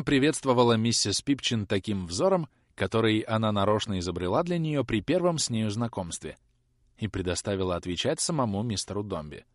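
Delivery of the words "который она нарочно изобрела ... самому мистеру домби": plain reading voice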